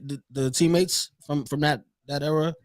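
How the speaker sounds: glitchy jumping pitch. Real, not acted. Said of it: "You sound like a robot again".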